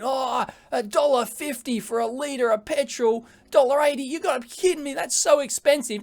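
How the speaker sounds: hammed-up grumbling driver; whiny complaining. Mimicking a driver at the petrol station, mock whining. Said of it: "you hear someone complaining".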